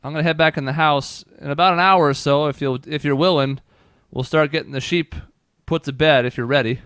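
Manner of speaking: kindly farm mother sending them off. Acted. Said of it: "She says".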